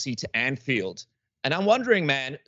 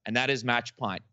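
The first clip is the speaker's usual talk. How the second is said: upbeat sales pitch, smooth and rehearsed; sponsor ad read; 3 semitones higher than usual. Acted. Podcast host reads the sponsor spot to his guests, bright ad read. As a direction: sell the app like a radio spot.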